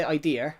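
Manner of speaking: idea with an r-coloured end, idear. Shown as a demonstration. Explaining his accent to chat, idea said as idear. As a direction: say idea ending in an added r sound. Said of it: "the A has a bit of an error on the end of it".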